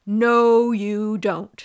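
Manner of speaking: loud and commanding; firm loud no. A narrator's reading. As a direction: stop them with a loud no. King forbids the wicked fairies.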